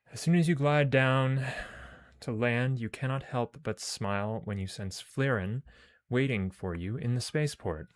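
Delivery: measured read-aloud of game text; story narration. Acted.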